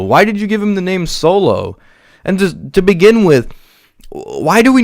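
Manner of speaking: high, exasperated ranting; incredulous rant. Real, not acted. Reviewer ranting at the film about the name Solo, high and exasperated.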